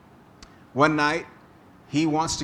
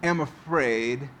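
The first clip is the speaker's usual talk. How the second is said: reading the psalm; slower than usual. Retold or imitated. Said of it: "King David says".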